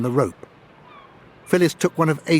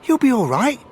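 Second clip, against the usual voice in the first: encouraging; 10 semitones higher, 4 dB louder than usual. A narrator's reading. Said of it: "called Ace encouragingly".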